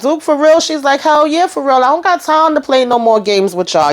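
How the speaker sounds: high, fed-up voice; lightly voiced irritated woman; annoyed. Acted quarrel voicing Chastity.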